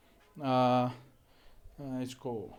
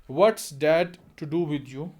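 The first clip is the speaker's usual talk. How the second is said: annoyed; 5 dB louder, much slower than usual. Acted. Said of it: "Doris annoyed".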